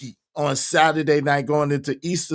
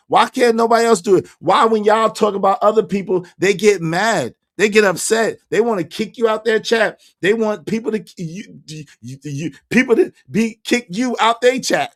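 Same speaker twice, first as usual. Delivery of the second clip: indignant rant; 5 semitones higher than usual. Real, not acted. Streamer venting to chat about people who get mad, worked-up rant. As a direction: demand an answer, worked up.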